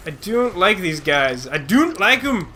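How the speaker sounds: slow, slipping into a rough Scottish accent; accidental Scottish accent. Real, not acted. Gamer complaining about these guys, lapsing into Scottish accent. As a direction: grumble it with a hint of bad Scottish accent. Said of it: "I got Scottish there".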